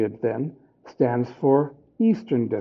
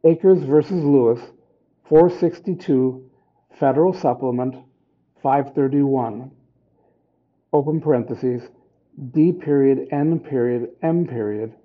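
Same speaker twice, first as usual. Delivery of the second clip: dictating. Shown as a demonstration. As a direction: read each piece out deliberately. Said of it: "constructed in the following manner".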